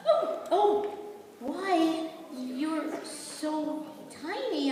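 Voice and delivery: high, delighted astonishment; amazed. Acted. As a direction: marvel at how small he is. Princess amazed at tiny man.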